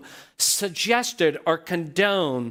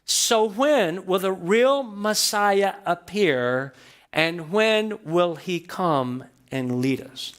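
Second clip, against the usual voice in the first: longing crowd's plea; slower than usual. Retold or imitated. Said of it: "So the attitude is".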